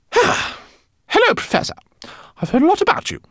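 very high chirpy rat voice; squeaky rat. A narrator's reading. Rat pilot meeting the professor, squeaky and eager. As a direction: greet him like an eager tiny fan.

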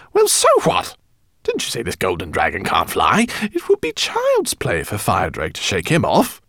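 squeaky, pushy little rat; a brash rat scoffing. Acted. Narrator voices the rat.

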